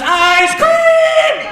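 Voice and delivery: high, loud lure call. Retold or imitated. Handler luring Biden with treat.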